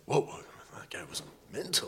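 soft whispered aside; whispering about the angry man while pedalling. Retold or imitated. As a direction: breathe it like sharing a secret. Debriefing after the row.

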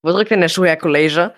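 knowing, professional probe; expert undertone. Acted. Colleague probing the quarrel, in a knowing expert tone. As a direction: ask like a seasoned pro sizing up a case. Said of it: "im fachmännischen Unterton".

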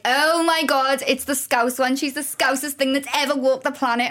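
slightly heightened gushing imitation; mock amazement. Mimics amazed people in Manchester.

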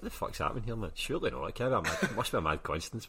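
can't believe it, half laughing; incredulous. Retold or imitated. Retelling his disbelief.

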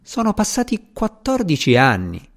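high, fondly exclaimed; mild fond reproach; affectionate exclamation. A narrator's reading. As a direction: lift the pitch in affectionate exclamation. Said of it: "in tono affettuoso".

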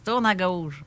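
calm navigation voice giving directions; steady, even GPS announcer. Pretend. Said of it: "une voix de G P S".

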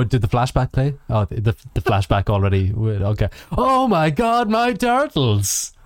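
mock actress. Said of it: "look at the camera and go".

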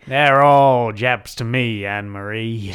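hammed-up wartime pilot. Pilot answering his sweetheart, slow bravado. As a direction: brush off the correction with bravado.

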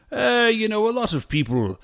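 put-on loose, half-hearted British accent for an old English woodworker; a hint of a British accent, done casually; vague British accent. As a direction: lightly imitate an old British craftsman. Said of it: "I'm just doing sort of a vague British accent".

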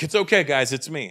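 placating. Acted. Acted placating of armed guards.

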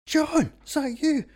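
high, loud, slow and hammed-up; mock surprised recognition. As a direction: play the astonished teacher meeting an old pupil. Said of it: "and went".

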